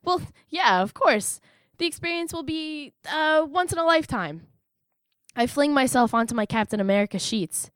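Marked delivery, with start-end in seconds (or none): 0.0-4.5 hesitant, unconvincing reassurance; buy time with pauses and drawn openings; stalling. Acted. Answering worried sister's question about going, stalling. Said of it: "I look to her as I stall".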